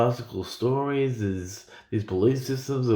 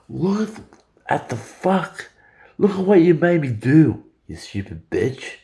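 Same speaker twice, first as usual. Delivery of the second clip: Satan yelling; 4 semitones higher than usual. Retold or imitated. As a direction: play an abusive devil ranting at his partner. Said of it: "Satan yelling at his mistress".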